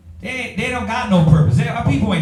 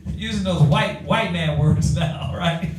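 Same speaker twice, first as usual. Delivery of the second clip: chuckling through the words; amused aside to the crowd; laughing. Real, not acted. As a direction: laugh at his own phrasing.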